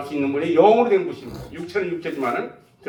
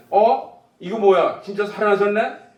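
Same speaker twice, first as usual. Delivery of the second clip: mildly startled, pitched up at the start; astonished realization; 4 semitones higher, slower than usual. Acted. Preacher voices disciples realizing he is alive, surprised. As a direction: voice someone taken aback by what they see. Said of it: "이걸 거기서 느끼는 겁니다".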